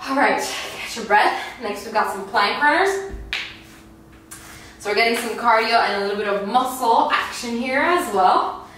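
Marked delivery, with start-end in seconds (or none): none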